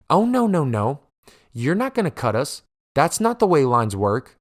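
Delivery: sister cutting in high and sharp, then firm; confrontational sister. Retold or imitated. Sister refusing to let a stranger cut, indignant. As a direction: tell the line cutter off, pitch jumping up.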